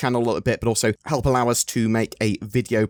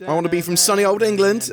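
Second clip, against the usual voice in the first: high, loud hammed-up English accent; a mock posh English accent for a laugh; 10 semitones higher, 5 dB louder than usual. YouTuber jokingly puts on an English accent in his ad, hammed up. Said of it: "I don't know why I'm doing an English accent".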